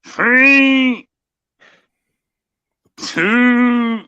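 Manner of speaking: high, loud announcer count; dramatic countdown. Acted. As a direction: call out each number big.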